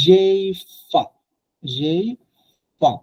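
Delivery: জেইফা, slowly drawn out on the repeat; French j'ai faim. Shown as a demonstration. Teacher models জেইফা for the online class. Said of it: "এটা ফাইম না".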